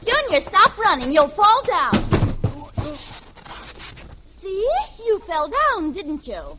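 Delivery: mother yelling after her son; scolding mother. Acted. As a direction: shout a warning at the running kid. Mother scolding running child.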